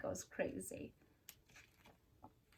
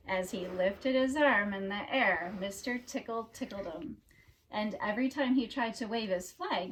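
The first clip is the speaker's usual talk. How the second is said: storybook narration; 8 dB louder than usual. A narrator's reading. Reader telling children about Mister Tickle, storybook narration. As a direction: read it like a picture book for children.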